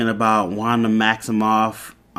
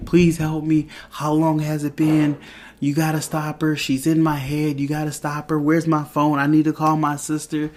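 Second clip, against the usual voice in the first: higher, pleading, a touch frantic; lightly voiced frantic plea; mock panic; 4 semitones higher than usual. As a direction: retell a man begging for help, mildly panicked. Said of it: "And he just freaks out".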